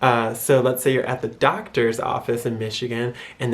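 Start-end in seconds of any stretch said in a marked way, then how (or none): none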